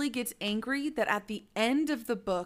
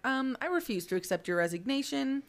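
Dumbledore; 6 semitones higher than usual. Retold or imitated. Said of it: "says to Hagrid, he's like".

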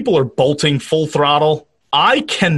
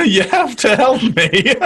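slow pleading; 7 semitones higher than usual. Pretend. Voicing the doctor begging.

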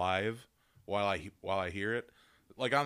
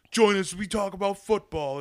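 mock ad host; 10 semitones higher, 8 dB louder than usual. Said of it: "He's like".

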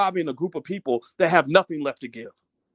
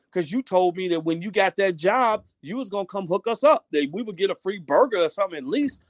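mock-indignant customer, pitch climbing to the end; fed-up reproach; 3 semitones higher than usual. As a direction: tell him off, rising as the grievance grows. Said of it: "look at a person like that and say".

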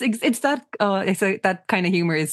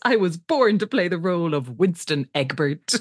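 slow, lightly hammed-up proclamation; dramatic declaration; slower than usual. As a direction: retell it as a grand actor's declaration. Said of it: "He delivers it so dramatically".

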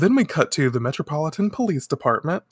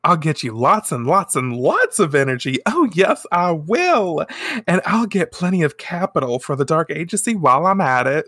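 higher, lilting character voice; sugary chocolate lady; 4 semitones higher than usual. Retold or imitated. Chocolate lady promising her boss energy, sugary. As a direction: promise it sweetly with swooping pitch.

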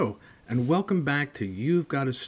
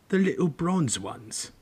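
slow, higher drowsy giant voice; sleepy Hagrid; 6 semitones higher, slower than usual. Acted. Hagrid explains the coins to Harry, slow and drowsy. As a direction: explain lazily from the sofa.

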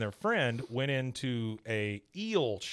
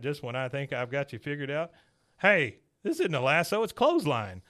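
lightly voiced gullible Hank; Hank's voice; 2 semitones higher than usual. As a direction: chatter then catch on. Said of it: "Hank speaking in retold scene".

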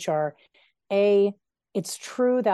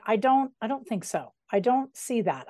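put-on light grumpy old man; 3 semitones higher than usual. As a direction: grumble it like a cranky old man. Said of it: "I gave that a grumpy old man voice".

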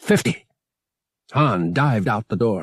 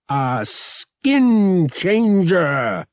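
loud, high, drawn-out cry; startled exclamation; 8 semitones higher, 5 dB louder, much slower than usual. A narrator's reading. Han spots the camouflaged attacker, startled exclamation. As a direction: stretch it out in high, loud realisation.

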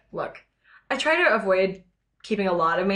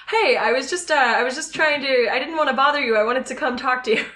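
lightly voiced, slightly higher Mariah; a hint of a nervous, higher character voice; Mariah's voice; 3 semitones higher than usual. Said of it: "this is sort of close to her voice".

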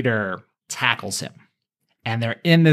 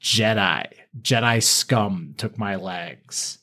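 crazed Maul; 2 semitones lower, slower than usual. Retold or imitated. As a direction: spit out Jedi scum with hatred. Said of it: "And Maul says".

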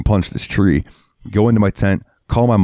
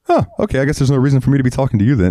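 mock curt dad; 6 semitones higher, much faster than usual. Dad retorts to troop leader.

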